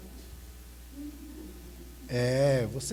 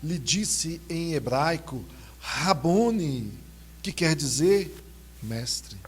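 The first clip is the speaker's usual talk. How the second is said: slow, solemn Bible reading; scripture reading; slower than usual. Acted. Pastor reads the resurrection passage to the church, solemn and measured. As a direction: read the Gospel to the congregation.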